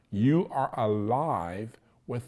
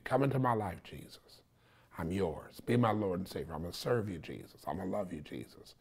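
prayer. Shown as a demonstration. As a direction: pray it simply, fading to a hush.

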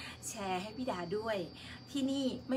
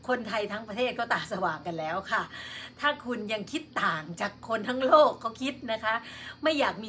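louder, scolding the trolls head-on; stern rebuke; 4 dB louder than usual. Real, not acted. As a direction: tell off the hecklers firmly. Host scolds trolls in her chat. (ดุเสียงดังใส่คนที่เข้ามาป่วน)

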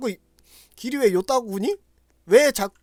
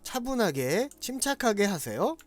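mock calm; 5 dB quieter, slower than usual. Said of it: "차분하게 해요".

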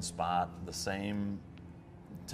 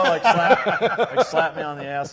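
a louder, higher burst acting out the slap; punchy, hyped storytelling; lively mock reenactment; animated retelling; 8 semitones higher, 11 dB louder than usual.

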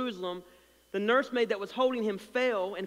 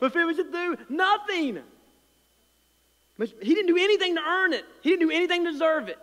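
emphatic preaching; 7 semitones higher, 5 dB louder than usual. Real, not acted. Preacher's climax, rising to emphasis.

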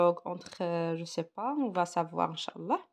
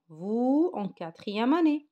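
slow dictation; 4 semitones higher, 6 dB louder, slower than usual. Shown as a demonstration. Teacher reads sentence to class.

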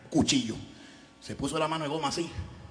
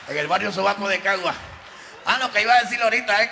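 loud and laughing; comic shouting through laughter to the crowd; 4 semitones higher, 7 dB louder than usual. Real, not acted.

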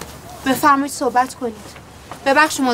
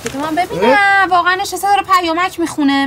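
higher, irritated disbelief; exasperated; 7 semitones higher, 4 dB louder than usual. Acted. Friend exasperated at him reading the text message. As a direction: scoff at him.

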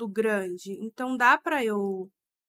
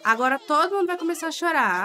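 exasperated; 4 semitones higher, 5 dB louder, faster than usual. Real, not acted. Babies about to cry.

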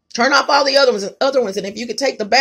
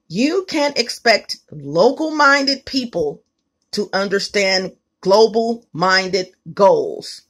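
slow dramatic reading; 2 semitones lower, slower than usual. Real, not acted. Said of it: "Let me read this to you guys".

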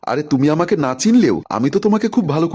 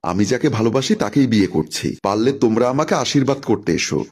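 soft tone. Acted. Bride softly asking her brother to bless her, tender. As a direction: gently ask your brother for blessing. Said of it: "কিঞ্চিত নরম সুরে বললাম".

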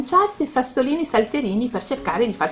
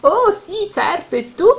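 eager reply; 8 semitones higher than usual. Acted. Violet answers friend about her gifts, eager. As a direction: toss the question back excitedly.

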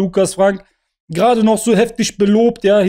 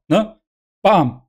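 ordinary talk

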